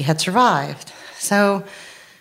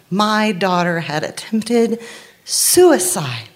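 grief breaking through; 4 semitones higher, slower than usual. Real, not acted. Mother at the hospital realizing her daughter's suicide attempt, voice breaking.

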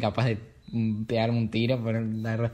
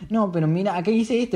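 insistiendo; 8 semitones higher than usual. Retold or imitated. Himself arguing, retold.

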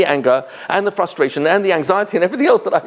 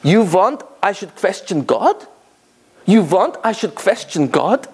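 a hint of a Yiddish accent, slow and plain; simple Yiddish-accented question; 3 semitones higher than usual. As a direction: ask it slowly, with total simplicity, in a light Yiddish accent. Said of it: "She said with such tamimus and, right, penetrating simplicity".

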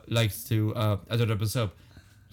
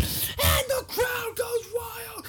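mock sportscaster; slower than usual. Mock announcer over fart.

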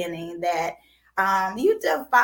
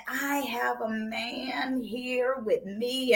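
slow, teasing drawl on a man; suggestive tease; 4 dB quieter, much slower than usual. Real, not acted. Host teasing about her male guest, slow and sly. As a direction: lean into it slyly. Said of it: "I said it like that".

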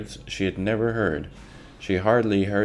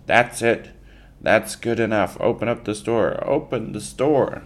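higher, louder crowd yell; 5 semitones higher, 4 dB louder than usual. Acted. Whole crowd yells at Pa to open the store, loud. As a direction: mob cheering the idea on.

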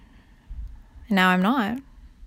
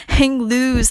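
surfer dude; 3 semitones higher, 5 dB louder than usual. Pretend. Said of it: "the basic surfer term".

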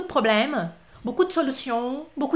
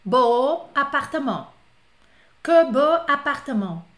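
slow literal translation; 5 dB louder, slower than usual. Shown as a demonstration. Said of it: "fiz a tradução literal".

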